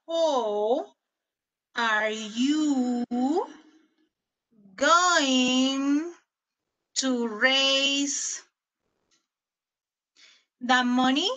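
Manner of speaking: slow, word by word with pauses; slow dictation. Shown as a demonstration. Teacher dictating the exercise question to the class, slow and measured. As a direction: read the question out as you write it. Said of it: "Y esta es la pregunta".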